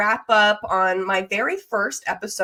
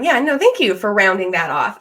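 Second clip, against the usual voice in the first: ordinary talk, nothing marked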